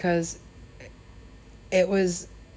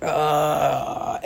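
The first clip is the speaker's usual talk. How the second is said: imitated drunk groan; 2 semitones lower than usual. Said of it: "in a state of".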